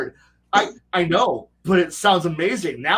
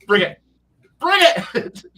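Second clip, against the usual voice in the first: louder, rising taunt; 4 semitones higher, 5 dB louder, slower than usual. Acted. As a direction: dare them to come. Taunting challenge.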